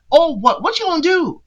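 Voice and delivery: rising, taunting dare; hammed-up sass daring him to act; mock confrontational Tia. Imitating Tia as she dares Rob, in a taunting tone. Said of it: "She's like".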